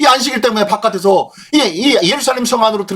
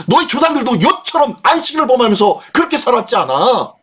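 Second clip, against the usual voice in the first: raised-pitch preacher's scolding, mildly acted; 느헤미야's rebuke; 5 semitones higher than usual. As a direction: scold them in an indignant, higher voice. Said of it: "느헤미야가 지금 호통을 치고 있는 거예요". (높은 목소리로 꾸짖듯 호통)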